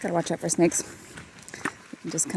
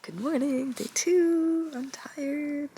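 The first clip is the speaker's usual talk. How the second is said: cheerful; 6 semitones higher, 5 dB quieter than usual. Real, not acted. Cheery greeting to camera.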